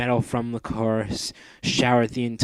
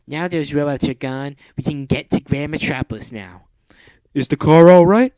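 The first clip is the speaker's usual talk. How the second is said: a higher put-on accent; character voice; 4 semitones higher, 10 dB louder than usual. Wilson and Mandy chatting after the fight, higher put-on accent. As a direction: talk it through in character.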